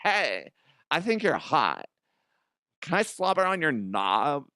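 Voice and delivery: lightly put-on Cockney come-on; half-hearted Cockney accent. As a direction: flirt in a mock Cockney. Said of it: "if they had that accent".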